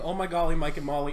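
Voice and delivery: lightly voiced Russian accent; a mild Russian take on the line; understated Russian accent. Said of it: "in the Russian accent".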